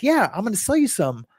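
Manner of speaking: lightly acted salesman, pitch lifted; eager Amway recruiter. Recruiter explaining commissions to a friend, lightly hammed-up eagerness. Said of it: "reenactment of, you know, ninety".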